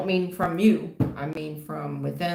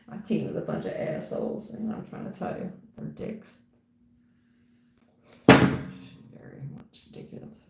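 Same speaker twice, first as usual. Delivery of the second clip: hushed, breathy whisper of a secret; confiding whisper. Real, not acted. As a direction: whisper it so only the viewers hear. Confiding about her team, then apologizing.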